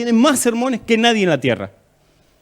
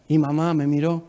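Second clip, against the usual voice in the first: usual speaking voice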